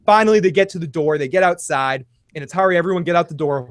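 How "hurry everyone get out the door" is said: urgent hurry. Retold or imitated. Urgent retold command.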